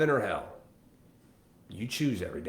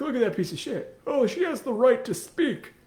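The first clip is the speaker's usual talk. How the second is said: mocking outraged people; 12 semitones higher, 5 dB louder than usual. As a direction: sneer at the hypocrites in a shrill parody. Mocking people reacting online.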